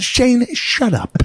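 high, loud, slow exasperated dad; imitating dad telling his son off; annoyed dad. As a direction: drag it out like an irritated father.

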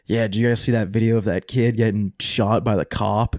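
flat deadpan delivery, no energy; monotone voice. Retold or imitated. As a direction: say it totally flat and bored. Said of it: "in the most monotone voice ever".

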